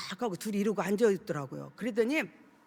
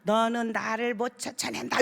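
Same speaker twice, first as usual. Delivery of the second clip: mocking sneer. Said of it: "비웃으면서".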